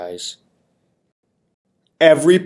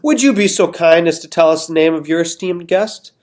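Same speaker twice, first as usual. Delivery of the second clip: smiling king; 4 semitones higher than usual. Acted. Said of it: "smiling at her".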